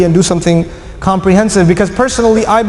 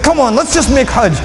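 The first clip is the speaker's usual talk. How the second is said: raised pitch, acting out an impatient crowd; rally them with a touch of anger; urgent, mildly heated appeal; frustrated urging; 4 semitones higher than usual. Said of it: "their anger was high and they said".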